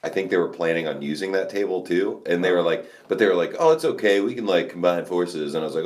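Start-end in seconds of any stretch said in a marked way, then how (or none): 3.6-5.5 a hint of mock politeness; fake polite. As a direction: mimic someone faking politeness. Mimicking fake polite neighbors.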